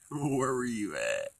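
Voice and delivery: high, drawn-out loud cry; stretched, high cry falling at the end; loud questioning. Pretend. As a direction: call it out slowly and loudly. Mock questioning of the vanished mind.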